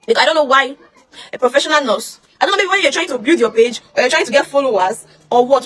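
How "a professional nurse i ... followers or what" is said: ordinary delivery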